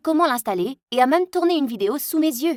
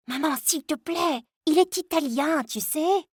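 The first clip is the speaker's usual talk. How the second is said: higher, softer pleading; pleading daughter; 5 semitones higher, 3 dB quieter, slower than usual. Acted. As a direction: gently beg mom to stop.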